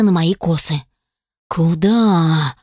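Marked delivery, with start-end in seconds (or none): 1.5-2.6 growled. A narrator's reading. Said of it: "прорычал".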